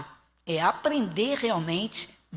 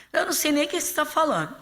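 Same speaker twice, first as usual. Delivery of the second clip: quick, higher-pitched mock protest; brazen denial; 8 semitones higher, faster than usual. Peter denies Jesus to the servant girl, quick mock protest. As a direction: rattle it off as a flat-out denial.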